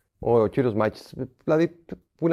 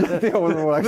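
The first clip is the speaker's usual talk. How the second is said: ρωτάει μέσα από γέλιο, πειραχτικά; ρητορική ερώτηση με γέλιο; γελώντας; 5 semitones higher than usual. Real, not acted. (γελαστή ερώτηση προς τον δημοσιογράφο για τον προπονητή)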